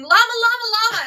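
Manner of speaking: high, loud imitated llama-calling; mock screaming. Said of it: "just starts screaming".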